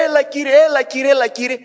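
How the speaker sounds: high pleading "έλα, Κύριε"; people crying out. Acted. People crying out to the Lord, high pleading. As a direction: beg the Lord to come, voice high. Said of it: "ο λαός κράζει και λέει".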